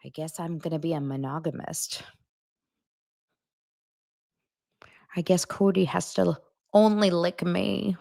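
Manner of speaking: hushed, whispery near-tears imitation; mock-tearful, barely voiced; close to crying. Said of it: "the closest she got to crying".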